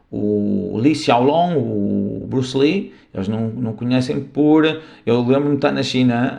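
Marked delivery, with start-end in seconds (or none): 0.8-1.6 Li Xiaolong said slowly, Mandarin style; Chinese name. Shown as a demonstration. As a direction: pronounce Li Xiaolong slowly and carefully. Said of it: "E é assim com os". (Li Xiaolong pronunciado devagar em mandarim)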